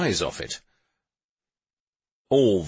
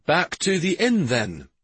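resigned; 9 semitones higher than usual. Acted. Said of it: "he said in a resigned tone".

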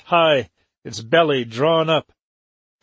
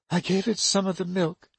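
said simply; 5 semitones higher, 6 dB quieter than usual. Acted. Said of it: "Helen said simply".

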